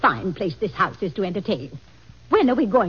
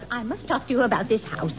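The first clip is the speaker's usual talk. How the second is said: ordinary delivery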